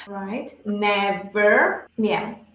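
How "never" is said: "Never" with a strong English V in the middle; low, careful "Never" with firm V; strong V sound. Shown as a demonstration. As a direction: lean on the V inside "Never". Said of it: "incorporar ese sonido".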